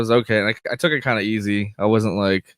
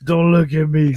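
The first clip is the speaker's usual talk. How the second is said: laughing; 5 semitones higher, 5 dB louder than usual. Retold or imitated. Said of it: "echoes quote laughing".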